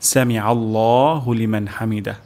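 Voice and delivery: slightly slow, careful; slow recitation. Shown as a demonstration. Teacher reciting again before the meaning. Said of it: "এখন আমরা অর্থটি জেনে নিব".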